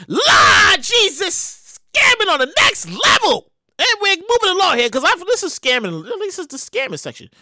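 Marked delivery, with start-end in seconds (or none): 0.1-1.8 disbelief. Real, not acted. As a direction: stretch it out in disbelief. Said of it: "exclaims in disbelief".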